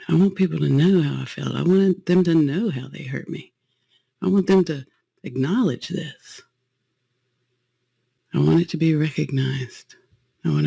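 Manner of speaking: pleading resentment. Acted. Voices the inner resentful feelings.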